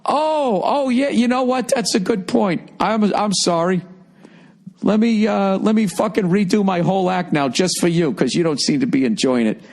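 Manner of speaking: high, mock-sweet sarcastic backtalk to a heckler; fake-grovel, dripping sarcasm; sarcastic mock apology. Comic to a bored crowd, high mocking sarcasm. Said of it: "I'm gonna go".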